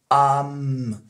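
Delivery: "Am" drawn out with a held m; lengthened "Am" for I'm; reduced I'm. Shown as a demonstration. Teacher drilling the subtle sound, reduced and held. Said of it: "il devient".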